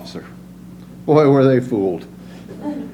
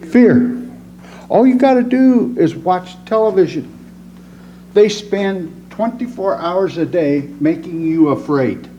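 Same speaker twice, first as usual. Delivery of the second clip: preaching; 2 semitones higher than usual. Acted. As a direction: drive the point home from the pulpit. Preaches about fear to audience.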